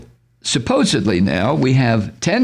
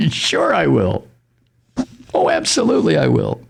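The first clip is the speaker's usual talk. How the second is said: sarcastic laugh. Pretend. Mocking Trump's promise.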